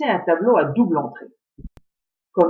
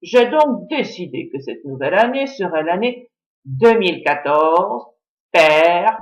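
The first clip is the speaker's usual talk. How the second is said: pompous chief's speech; slower than usual. Acted. Chief addresses all the Shaddocks.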